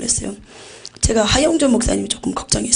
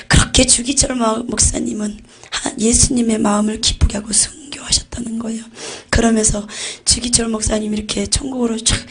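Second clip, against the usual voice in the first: usual speaking voice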